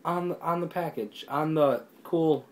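real high-pitched outrage at a sticker; exasperated. Real, not acted. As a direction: vent at the sticker ruining the box. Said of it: "It makes me mad".

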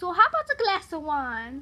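lilting, put-on British; British accent. Shown as a demonstration. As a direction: offer it like a British host. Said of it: "British accent".

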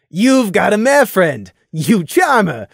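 slow, loud gleeful tease; teasing. Acted. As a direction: gleefully rub it in. Fiera keeps teasing.

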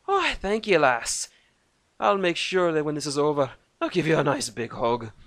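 gruff Celtic dwarf voice; Irish-Scottish dwarf. A narrator's reading. Dwarf Thorgan answering Lucas, Scottish-Irish brogue. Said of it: "Irish, Scottish".

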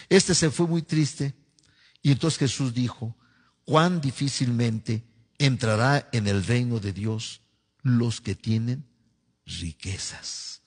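slow, solemn scripture reading; lectura bíblica. Acted. Reads scripture aloud. (lectura solemne y pausada de la Biblia)

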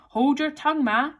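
put-on high, loud young retort; a little snappish. A narrator's reading. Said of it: "a little snappishly".

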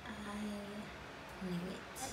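I knew it stretched very slowly; slow, knowing echo of I knew it; slow drawn-out repeat. Shown as a demonstration. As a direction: let I knew it crawl out.

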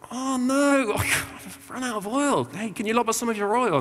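high, slow, far-off silly voice with a laugh; foolish bridesmaid. Retold or imitated. Preacher mocking the foolish girls begging for oil, high and giggly. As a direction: play the ditzy girl who ran out of oil. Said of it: "five of them are like".

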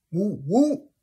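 high, loud whooping call; high loud hype call to fans; excited whoop. Real, not acted.

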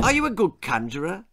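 put-on eager boy Jack. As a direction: butt in like a chattering boy.

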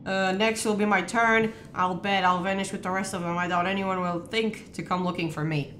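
even, measured narration of a found notebook; reading aloud. Real, not acted. Player reading a game notebook to partner, measured reading. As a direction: read the journal entry steadily.

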